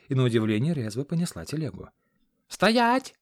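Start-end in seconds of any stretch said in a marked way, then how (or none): 2.5-3.2 very high, loud bellow; yelled halt. A narrator's reading. Aide bellowing at the escaping cart, loud. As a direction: scream at them to stop. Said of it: "заорал Хорёк".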